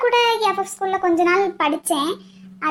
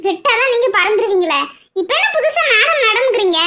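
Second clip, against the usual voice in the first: teasing laugh. Acted. Teasing husband while laughing.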